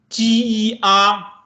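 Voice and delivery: G E R spelled slowly; teacher spelling slowly; slow spelled letters. Shown as a demonstration. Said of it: "Repeat after me".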